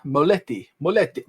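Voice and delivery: put-on light Italian accent on Moletti, said MO-LEH-tee; playful Italian accent. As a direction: roll Moletti like an Italian word. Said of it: "Don't know why I sound Italian".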